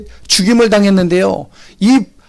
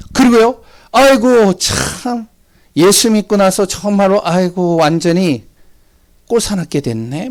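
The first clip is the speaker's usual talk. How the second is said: mocking taunt; 2 semitones higher than usual. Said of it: "막 여러 가지 막 모욕을 하고요".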